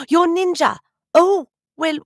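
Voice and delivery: high, loud, thrilled recognition; light up as you recognise a fan; delighted surprise. Real, not acted.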